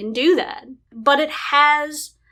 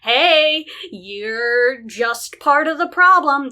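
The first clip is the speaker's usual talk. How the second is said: mock preachy warning, louder and higher; condescending lecture; 4 semitones higher, 4 dB louder than usual. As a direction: lecture them like a smug know-it-all. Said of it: "tell them".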